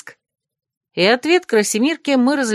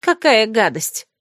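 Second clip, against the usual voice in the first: scornful snort; 3 semitones higher, slower than usual. Acted. Malvin sneers at the beautiful bride, scornful. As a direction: sneer it like a jealous girl. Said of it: "фыркнула Мальвин".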